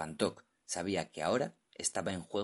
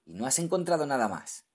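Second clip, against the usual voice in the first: eager; 7 semitones higher, 6 dB louder than usual. Acted. Captain pressing the diver.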